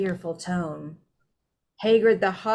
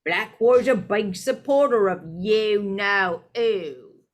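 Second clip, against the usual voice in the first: Stan's voice; 5 dB louder, slower than usual. Acted. Stan voiced in read story.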